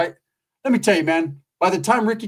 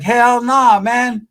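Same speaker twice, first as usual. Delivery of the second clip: emphatic refusal; 7 semitones higher, 6 dB louder, much slower than usual. Retold or imitated. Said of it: "I'm like".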